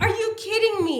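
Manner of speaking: laughing, high disbelieving shout; exasperated outburst. Retold or imitated. Wife retelling her outrage at a wasted question, laughing shout. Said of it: "And I got so mad".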